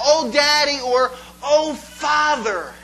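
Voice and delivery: loud, high cry of Oh Daddy, stretched slow; crying out to God. Acted. Believer crying out to God, loud and longing. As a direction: call out to Father like a longing child. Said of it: "we cry out".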